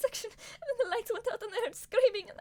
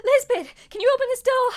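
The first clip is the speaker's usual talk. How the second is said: calling through the door; 8 dB louder than usual. Acted.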